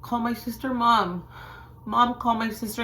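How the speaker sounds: high, worried pleading. Retold or imitated. Worried daughter urging mom to call, pleading. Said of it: "And I'm pleading with her".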